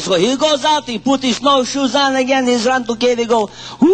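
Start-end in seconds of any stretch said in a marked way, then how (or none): 3.8-4.0 one short shouted woo; calling out. Acted. Hunter shouts into each cave hoping for an answer.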